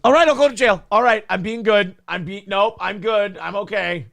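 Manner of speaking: suddenly obedient and eager to please; cowed girl. Retold or imitated. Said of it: "she goes".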